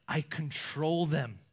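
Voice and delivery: slow, low, weighty boast; bragging. Acted. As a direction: claim it slowly with full authority. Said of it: "He's, like, bragging about them".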